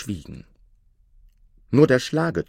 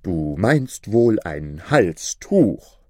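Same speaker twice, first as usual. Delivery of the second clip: slow probing robber; lightly voiced cunning robber; sly robber; 3 dB louder, much slower than usual. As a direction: fish for the truth.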